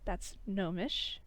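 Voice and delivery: slow, soft and tender; a quiet heartfelt translation; soft tender line. Acted. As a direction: say it gently, like a vow. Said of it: "and he's like".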